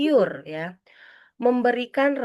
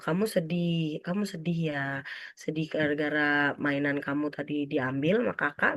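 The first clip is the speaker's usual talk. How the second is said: gentle naming; 3 semitones lower, 4 dB quieter than usual. Acted. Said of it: "dinamai nangisnya".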